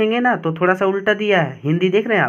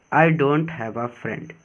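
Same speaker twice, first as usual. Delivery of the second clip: slow, careful delivery of the line; teacher reading the key line slowly; slow, soft reading; 3 semitones lower, 3 dB quieter, much slower than usual. Shown as a demonstration. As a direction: read slowly and a little softer. Slow reading of English text.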